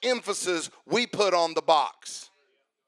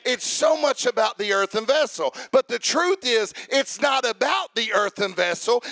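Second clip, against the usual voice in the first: rising preacher's cadence, punching each line; Sunday-night sermon at full fire; full-force preaching; 3 semitones higher than usual. Real, not acted. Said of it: "but I feel preachy".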